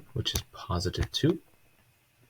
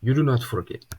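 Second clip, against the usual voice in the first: stern teacher; 4 semitones higher, 3 dB louder than usual. Retold or imitated. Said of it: "It's literally what he sounded like".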